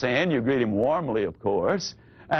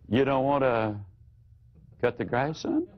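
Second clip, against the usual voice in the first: lowered voice, rising question; 3 semitones lower than usual. Shown as a demonstration. Parent repeating the teen's refusal, low voice rising. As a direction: calmly hand it back to the boy. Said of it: "You lower your voice".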